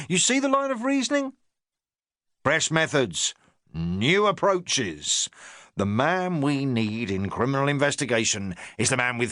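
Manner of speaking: a touch of a self-important inspector; the inspector talking down to his sergeant, lightly pompous. Acted.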